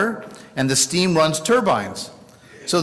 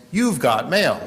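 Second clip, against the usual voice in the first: AOL automated voice. Retold or imitated. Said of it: "that A O L automated voice".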